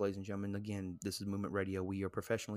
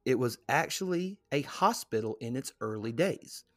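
read-aloud narration; 3 dB louder than usual. Real, not acted. Host introducing a haunted museum, read-aloud narration. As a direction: read the entry out with weighted key words.

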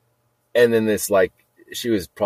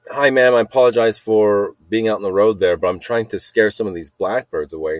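upbeat, louder customer-service greeting; friendly but assertive; 5 dB louder than usual. Retold or imitated. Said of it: "just a happy, friendly way, um, but assertive".

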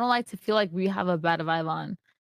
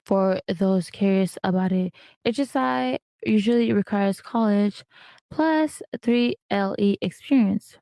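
sexy voice; slower than usual. Pretend. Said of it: "in your sexy voice".

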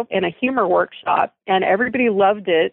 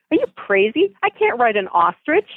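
incredulous protest; 4 semitones higher than usual. Acted. Heroine refuses to ride ostrich.

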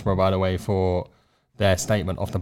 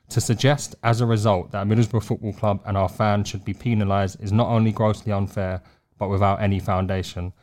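formal statement reading; statement read aloud. Acted. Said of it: "so here goes".

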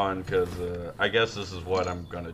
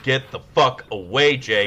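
telling off; 3 semitones higher, 6 dB louder than usual. Retold or imitated. Retold telling coworker off.

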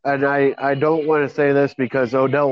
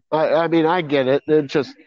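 speaking through a face mask; muffled behind a mask. Real, not acted. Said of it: "I got my mask on right now, so excuse me if I'm muffled".

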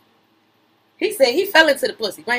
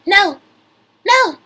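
imitating an emphatic no, rising and louder; mock him saying no with force; 6 semitones higher, 5 dB louder than usual. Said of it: "he emphatically said".

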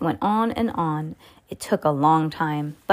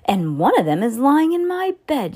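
put-on boy's indignant yell, pitched up; mild yell; 6 semitones higher, 3 dB louder than usual. A narrator's reading. Boy spots a duck lying in his bed, indignant mild yell. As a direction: pipe up in high protest, a mild yell. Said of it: "yelled William".

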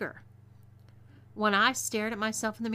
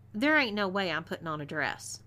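snarling. Acted. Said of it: "I snarled".

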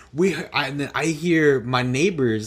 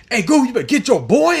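retold angry warning; 11 semitones higher, 8 dB louder than usual. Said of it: "And he's like".

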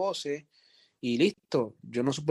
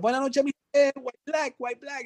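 high, hammed-up emcee voice for "Buenas noches, mister"; mock announcer; 12 semitones higher than usual. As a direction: play a cheesy club host introducing the duo. Mock club announcer intro.

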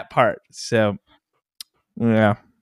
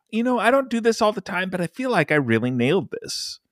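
British accent attempt; 5 semitones higher than usual. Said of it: "give it my best British accent".

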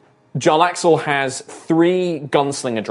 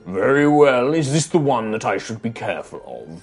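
ultra low rumble. Acted. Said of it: "this deep rumbling voice".

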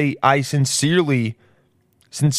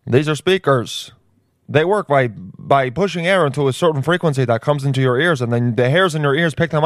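imagined Elon voice. Retold or imitated. Telling fans how speakers work, lightly voiced Elon. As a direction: explain speakers like a know-it-all genius. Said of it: "I don't know where I got this voice for him".

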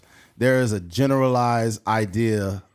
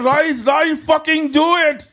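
high, slow furious shout; 14 semitones higher, 5 dB louder, slower than usual. Retold or imitated. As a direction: yell it like an angry clerk. Clerk yelling, acted quote.

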